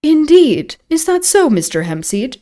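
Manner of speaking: polite question with a high-pitched opening; lightly acted polite stranger; polite inquiry. A narrator's reading. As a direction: inquire courteously, starting high. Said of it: "inquired the stranger politely".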